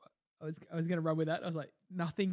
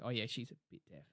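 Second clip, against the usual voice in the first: much lower and softer; mock condescending aside; 6 semitones lower, 12 dB quieter than usual. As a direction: say it like a pitying whisper behind a hand. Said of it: "They're like".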